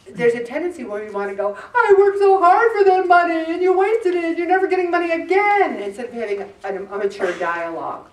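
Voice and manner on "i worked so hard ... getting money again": loud, high angry scolding; scolding parent. Retold or imitated. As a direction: blow up at the son. Parent scolding son over money.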